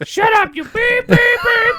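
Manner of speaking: high shouted beep-cursing; cursing droid. Acted. R2 tells 3PO off, high shouted beeps. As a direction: yell the beeps like swear words. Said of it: "foul-mouthed droids".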